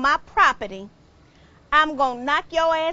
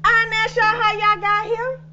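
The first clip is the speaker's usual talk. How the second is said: angry yell. Acted. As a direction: run them off the porch. Yelling at counselors.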